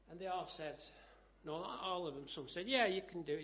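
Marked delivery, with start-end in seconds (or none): 2.7-3.4 mock cheer, louder on the first word; retold shout of encouragement; crowd calling out. Onlookers egging on the tightrope walker, calling out.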